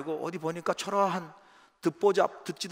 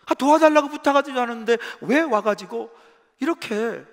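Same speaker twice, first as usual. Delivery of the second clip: high, loud indignant outcry; angry complaint; 4 semitones higher, 4 dB louder than usual. Retold or imitated. Israelites complaining to Moses, high and indignant. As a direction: rail at them, pitched up and loud. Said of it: "속에서 막 화가 난 거죠".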